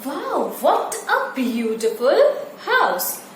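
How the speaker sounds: slow, amazed Wow, what a beautiful house; exclaiming in wonder. Shown as a demonstration. Teacher showing children an exclamatory sentence, exclaiming in wonder. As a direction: gasp at the house as if seeing it first. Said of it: "so what you will say?".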